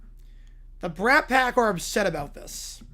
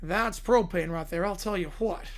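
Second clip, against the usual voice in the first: Hank Hill; 2 semitones lower than usual. Retold or imitated. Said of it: "by Hank Hill".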